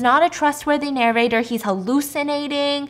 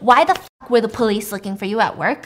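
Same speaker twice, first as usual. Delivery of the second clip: louder, indignant acted demand; raging; 5 dB louder than usual. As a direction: confront him as the furious nurse. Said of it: "she's raging".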